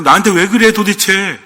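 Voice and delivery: mildly hammed-up exasperated complaint; acted exasperation. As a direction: act fed up, pushing the first question out. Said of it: "우리 보통 언제 그러면".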